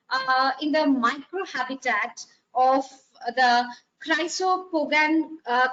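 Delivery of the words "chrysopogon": chrysopogon with a hard K start, KRY-so-po-gon; tentative pronunciation. Shown as a demonstration. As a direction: say "chrysopogon" slowly, opening on KRY. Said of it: "however you pronounce it".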